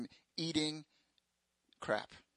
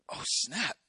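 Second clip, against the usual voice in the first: casual slang reaction; 5 semitones higher than usual. Pretend. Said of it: "this is the Marcus International version".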